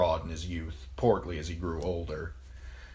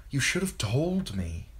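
higher, pained accusation; angry reproach; 7 semitones higher than usual. A narrator's reading. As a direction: reproach him with rising pitch. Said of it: "A blind rage filled her".

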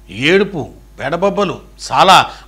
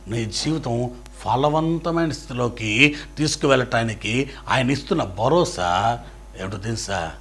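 ordinary talk

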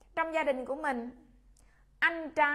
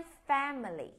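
whisper. Shown as a demonstration. Teacher demoing for class.

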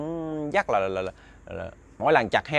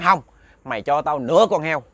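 a louder, higher, demanding ghost voice; 4 semitones higher, 5 dB louder than usual. Retold or imitated. Ghost demanding half the pig, louder and higher. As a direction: bark the demand as the greedy ghost.

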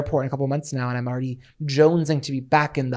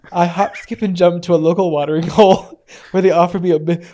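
dramatic monologue reading; 6 dB louder than usual. Shown as a demonstration. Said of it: "monologue I wrote".

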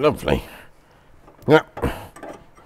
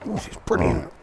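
delighted; 13 semitones higher, 4 dB quieter than usual. Real, not acted. Delighted with the car.

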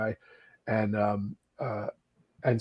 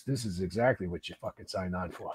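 remembered voice; 7 semitones lower, 11 dB quieter than usual. Retold or imitated. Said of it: "Patty Brown's voice came into me".

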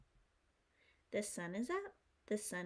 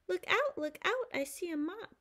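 warning shout; 7 semitones higher, 5 dB louder than usual. Acted. Apple story, warning shout.

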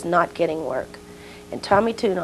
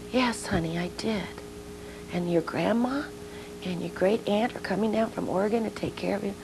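put-on soft, soothing mother to child; tender reassurance; 7 dB quieter than usual. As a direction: gently reassure your little girl. Mother reassuring her child before leaving.

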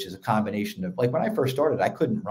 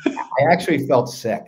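laughing; 3 semitones higher, 4 dB louder than usual. Real, not acted. Laughs telling about pancakes.

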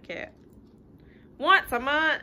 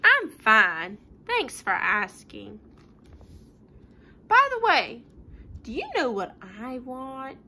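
pigeon voice; 5 dB louder than usual. Acted. Pigeon voiced in read-aloud.

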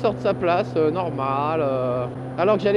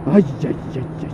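low mock moaning "aïe, aïe"; Sarkozy's moan; 6 semitones lower, much faster than usual. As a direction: groan the "aïe" like a complaint. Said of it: "c'est la plainte".

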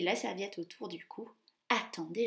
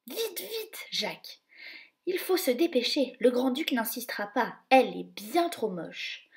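hurried mouse; 3 semitones higher, 5 dB louder than usual. Acted. Gus urging Jacques up the stairs, squeaky hurry. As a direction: hurry your friend along.

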